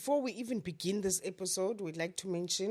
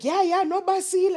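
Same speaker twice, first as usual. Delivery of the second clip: excited quote; 11 semitones higher, 7 dB louder than usual. Retold or imitated. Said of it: "she's like".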